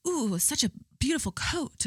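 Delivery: put-on Amir's Indian accent. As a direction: imitate him in a tentative Indian accent. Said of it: "I'm gonna have to do the accent".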